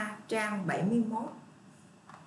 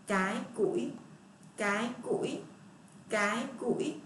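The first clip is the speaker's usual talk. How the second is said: slow model reading. Shown as a demonstration. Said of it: "các bạn chỉ tay đọc ba lần".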